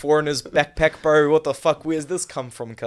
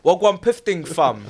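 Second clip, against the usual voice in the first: wannabe gangster; slower than usual. Pretend. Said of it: "you're another roadman".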